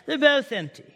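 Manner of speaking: lightly imitated British accent on "They're both empty"; a hint of a wonderful British accent; preacher mimicking a British guide in a mild British accent. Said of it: "British, wonderful British accent".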